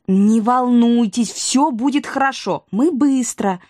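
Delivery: reassuring. Acted. Reassures Irina before leaving.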